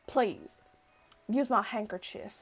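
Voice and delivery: lightly voiced country accent; a hint of country accent, low-key. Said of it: "supposed to be a country accent".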